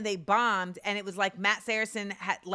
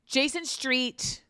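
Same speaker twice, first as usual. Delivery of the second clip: slow musing; 5 semitones higher, much slower than usual. Real, not acted.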